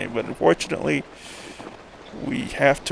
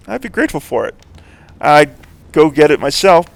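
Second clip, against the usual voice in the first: put-on louder old drunk fisherman voice; town drunk; 7 dB louder than usual. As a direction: play the boozy old fisherman, a bit louder.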